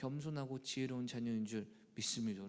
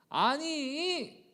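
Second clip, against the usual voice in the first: mock childish revenge; 13 semitones higher, 8 dB louder, much slower than usual. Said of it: "여섯 번 복수했는데".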